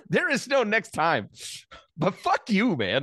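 high, slow mock outburst; retold angry retort. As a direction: fire back at him, half joking.

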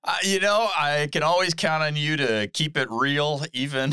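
laughing while talking. Real, not acted. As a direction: get the words out while still laughing. Still laughing at joke.

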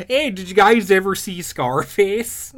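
lightly put-on Minnesota accent; a hint of Minnesota vowels. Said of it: "a Minnesota accent".

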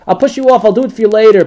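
a sly put-off from Esav's angel; lightly voiced stalling angel. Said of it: "the Esar Shel Esav was showing that".

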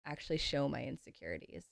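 hissing s sounds through teeth; whistling s. Real, not acted. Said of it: "I'm whistling through my teeth".

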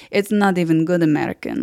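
mildly scornful Italian snob; Italian-accented put-down. Retold or imitated. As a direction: dismiss it in a light Italian accent. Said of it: "an impression of him".

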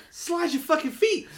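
fed-up fan yelling at the TV; exasperated yell. Retold or imitated. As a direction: bark it like a frustrated coach at the screen. Yelling at players on TV.

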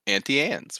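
"Auntie Anne's" with a short a in Auntie; "Auntie" starting just like the insect "ant". Shown as a demonstration. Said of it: "No, dude, it's, you know".

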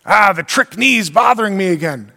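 a put-on moan about the knee; hammed-up complaining; grumbling. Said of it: "You're grumbling".

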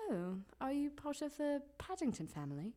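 put-on London accent. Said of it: "Do your London accent".

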